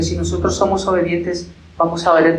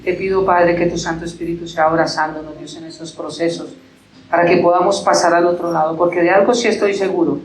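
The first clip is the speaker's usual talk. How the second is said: earnest pastoral prayer to God; closing prayer. Acted. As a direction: pray over the congregation, slowing at the amen. (oración pastoral ferviente y pausada)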